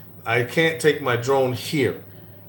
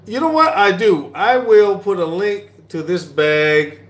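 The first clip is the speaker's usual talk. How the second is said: sudden high burst of excitement; excited; 5 semitones higher, 5 dB louder than usual. Real, not acted. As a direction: pop up loud and high, thrilled. Excited reply to chat question.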